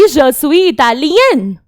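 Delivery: Je suis Italien spoken very slowly, the en sounded; slow feminine demo. Shown as a demonstration. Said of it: "female बोलेगी".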